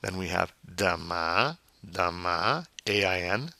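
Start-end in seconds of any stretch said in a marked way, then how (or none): 0.7-2.7 "demain" ending on a nasal vowel, no N; French "demain" with rising nasal vowel. Shown as a demonstration. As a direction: lift the nasal end of "demain". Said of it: "nasal sound at the end".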